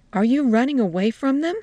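put-on old woman surprised at the soldiers; surprised question. A narrator's reading. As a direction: she is taken aback. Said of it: "she asked, surprised".

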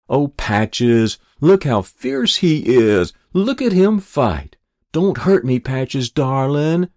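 high, loud sing-song taunting; a pack of kids jeering in high, loud voices; mocking squeal. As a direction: squeal it to mock him, slow and sneering. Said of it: "the mocking voices squealed".

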